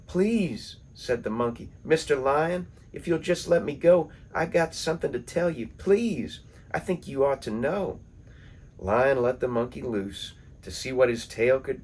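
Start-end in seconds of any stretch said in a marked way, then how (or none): 0.1-0.8 a high begging please; pleading. Acted. Monkey begs the lion to let him go. 1.8-8.0 high, fast pleading voice; pleading monkey. Acted. Trapped monkey pleads with Lion, high and fast.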